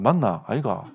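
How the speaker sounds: mild Busan sentence endings; Busan dialect. Shown as a demonstration. Preacher contrasts Busan with Daegu speech, lightly voiced Busan dialect. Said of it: "이렇게 얘기한단 말이에요".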